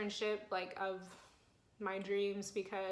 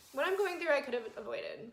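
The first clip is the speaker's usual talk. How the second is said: higher, choked-up pitch after crying; teary retake; 4 semitones higher than usual. Real, not acted. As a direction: say it again with tears in the voice. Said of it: "why am I crying already".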